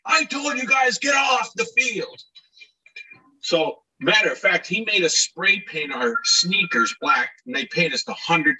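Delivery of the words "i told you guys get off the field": angry groundskeeper. Retold or imitated. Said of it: "He goes".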